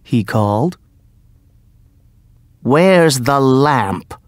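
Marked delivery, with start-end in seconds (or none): 2.6-4.1 angrily. Acted. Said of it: "said the magician angrily".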